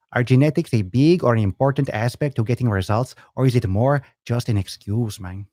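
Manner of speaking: a lightly put-on stereotypical Mexican accent, playful. Reading a viewer's question aloud in a mock Mexican accent. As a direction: read it in a hammed-up Mexican accent. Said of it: "I just did a Mexican accent".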